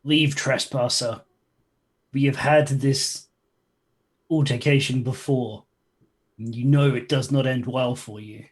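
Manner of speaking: slow, measured warning to trespassers; understated yell, stretched out word by word; game monster's warning. Acted. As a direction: deliver a slow, deliberate monster's threat. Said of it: "he yells something about".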